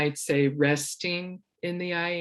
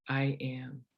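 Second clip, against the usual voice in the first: soft spoken; 9 dB quieter than usual. Shown as a demonstration. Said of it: "gently say to yourself the words".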